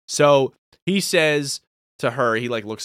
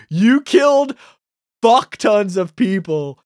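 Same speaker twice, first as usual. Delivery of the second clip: outraged; 6 semitones higher, 6 dB louder than usual. Real, not acted. Outraged at Vader's crimes.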